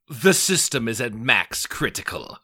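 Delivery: slow, stern automated alarm voice; security system voice. Pretend. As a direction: read it like a computer warning. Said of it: "a security system voice".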